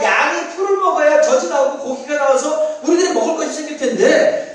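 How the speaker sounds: indignant protest. Retold or imitated. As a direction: push back hard at the prophet. People protesting to the prophet.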